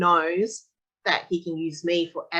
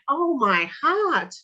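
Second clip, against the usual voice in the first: touched; 7 semitones higher, much slower than usual. Retold or imitated. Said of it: "I'm just going".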